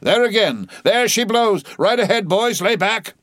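high, loud excited calls; eager urging. A narrator's reading. Mate urges his crew on, excited. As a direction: spot the whale and drive the rowers.

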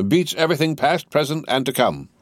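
high-pitched, exasperated disbelief; vexed. A narrator's reading. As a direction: exclaim it with irritated astonishment. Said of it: "laughed Stryver with a vexed laugh".

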